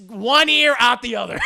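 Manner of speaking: high, loud playful aside; mock shouting. Narrator on Monica ignoring the warning, playful shout. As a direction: call it out in amused exasperation.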